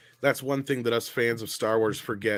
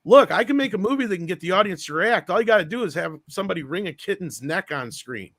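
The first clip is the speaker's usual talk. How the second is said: higher-pitched, huffy imitation; mock pissy; 6 semitones higher than usual. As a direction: act out a testy, defiant retort. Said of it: "George got all pissy".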